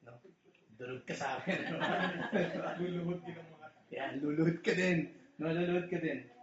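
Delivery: a hint of a vengeful movie hero, half-laughing; mock movie revenge line. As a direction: ham up a revenge vow from a film. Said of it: "yun ang nakapanood dati sa movie". (pabirong linya ng naghihiganti sa pelikula)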